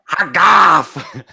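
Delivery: lizard folk voice. Acted. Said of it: "In my best impression of a lizard folk voice".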